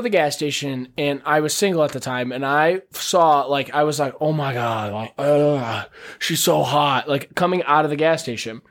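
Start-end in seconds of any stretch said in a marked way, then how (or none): 4.2-7.1 lower, lovestruck mock gush; a lightly hammed-up smitten sigh. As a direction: gush over her like a smitten guy. Retold ogling of a girl.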